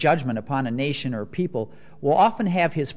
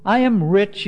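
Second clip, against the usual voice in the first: mocking the boast, louder and higher; sarcastic; 6 semitones higher, 6 dB louder than usual. Shown as a demonstration. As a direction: sneer at their smug boast. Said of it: "really sarcastic tone".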